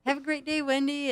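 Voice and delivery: high, lilting sign-off; exaggerated cheery goodbye on the phone; acted phone goodbye. Acts out signing off on call.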